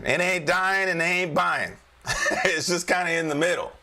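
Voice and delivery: chuckling through the words; amused, laughing delivery. Real, not acted. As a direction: laugh as you say it. Laughing at his own joke.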